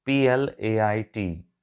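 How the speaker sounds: letters spelled one by one, slowly; slow letter-by-letter spelling of पी एल ए आई टी. Shown as a demonstration. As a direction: spell out the word plait letter by letter: पी एल ए आई टी. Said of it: "प्लेट".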